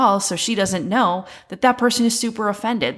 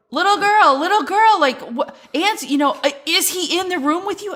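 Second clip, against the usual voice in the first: mock shout; 10 semitones higher than usual. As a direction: call out the girl's name, mock-frantic. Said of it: "starts shouting for her".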